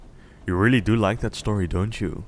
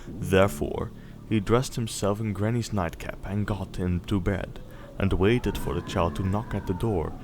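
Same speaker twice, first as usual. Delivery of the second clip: gentle storybook reading voice; bedtime story narration. A narrator's reading. Parent reading Little Red Riding Hood to Snowball, storybook voice. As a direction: read it like a bedtime tale. Reads fairy tale to child.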